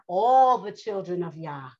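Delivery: "all" drawn out slow and strong; stress on all. Real, not acted. Preacher widening it to every child of Yah, stressing "all". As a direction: lean long on the word "all". Repeats, adding all for emphasis.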